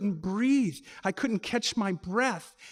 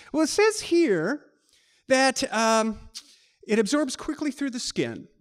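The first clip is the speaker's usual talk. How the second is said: higher, louder reading aloud; operator reading; 4 semitones higher, 4 dB louder than usual. Retold or imitated. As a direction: read the entry off the page like an operator. Operator reads out the entry.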